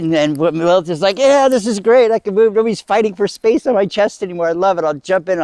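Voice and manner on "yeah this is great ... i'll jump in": high, excited gush; acted-out elated rush; delighted relief. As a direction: celebrate newfound freedom, pitched up high. Lilith delighted after boob is removed.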